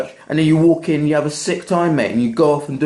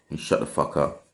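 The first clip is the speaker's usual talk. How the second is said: low unvoiced mutter; muttered under breath; 10 semitones lower, 8 dB quieter than usual. Real, not acted. Closing message of the rant.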